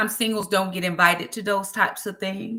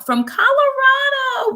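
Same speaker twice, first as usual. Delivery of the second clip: excited call-out; 7 dB louder than usual. Real, not acted. Reading viewer's location.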